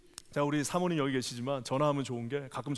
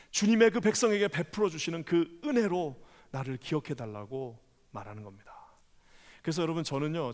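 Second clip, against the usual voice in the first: ordinary delivery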